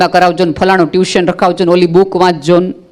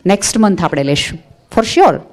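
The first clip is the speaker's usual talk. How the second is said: Next month આપણે લેશું said softer, gentle promise; softly promising. Shown as a demonstration. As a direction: soothe the child quietly. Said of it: "શીખવો". (ધીમેથી, પ્રેમથી વચન)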